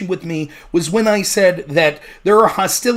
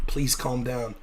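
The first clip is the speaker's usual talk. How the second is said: mocking hushed calm-down voice, much softer and lower; 10 semitones lower, 13 dB quieter, slower than usual. Streamer mimicking chat telling him to calm down, softly. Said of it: "people tell me to calm down".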